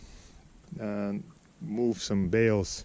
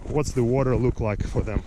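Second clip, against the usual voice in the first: on a bumpy road. Real, not acted. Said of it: "So sorry about the shaking".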